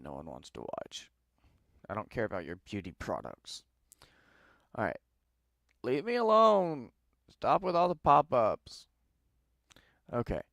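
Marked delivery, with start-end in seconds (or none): 5.8-8.9 high, loud exasperated outburst at the pop-ups; fed up, yell it higher and louder; a real burst of frustration. Real, not acted. Pop-up ads keep appearing.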